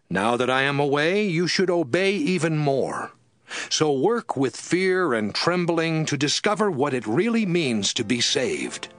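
ordinary delivery, nothing marked

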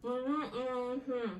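muffled through tape over lips; mouth taped shut. Real, not acted. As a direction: talk with lips taped closed. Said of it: "Ağzını kapat".

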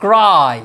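ক্রাই stretched into one long glide; one long, falling ক্রাই; drawn-out word. Shown as a demonstration. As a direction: hold the vowel of ক্রাই. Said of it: "এটাকে এভাবেও ভাঙা হয়".

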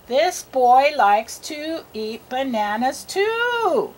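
very slow, word by word, lifting on the last; slow read-aloud. Shown as a demonstration. Models reading for a learner.

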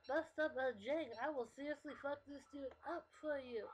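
hammed-up promise of a fight; overdramatic friend. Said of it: "over-exaggerating how they act".

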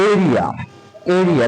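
এরিয়া opening on a clear "ay" vowel; A sounded as এ. Shown as a demonstration. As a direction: model এরিয়া clearly for repeating. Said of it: "এর মতো হচ্ছে".

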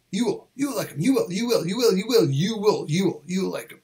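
repeated "You will" squeezed toward "you'll"; quick contracted drill. Shown as a demonstration. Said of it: "が早く言うだと".

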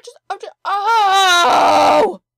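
long, slow, very loud exasperated yell; frustrated shout. Real, not acted. Stuck behind a stubborn cow, drawn-out frustrated shout. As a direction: let the frustration burst out.

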